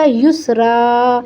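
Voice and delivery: "یسرا" ending in a long drawn-out aa; وقف کے ساتھ. Shown as a demonstration. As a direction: slowly say "یسرا", stretching the final alif with no n sound. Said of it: "ایک زبر الف کے ساتھ پڑھیں گے". ("یسرا" کے آخر میں لمبا الف)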